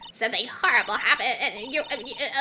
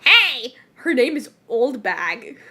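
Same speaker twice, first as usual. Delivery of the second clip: put-on old hag; 4 dB louder, slower than usual. Guard character scolds loudly.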